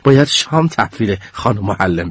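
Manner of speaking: lightly voiced made-up French accent, a bit low; a hint of a fake French accent. Classmate teasing the group in a made-up French accent. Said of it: "با لهجهٔ فرانسوی من درآوردیش گفت".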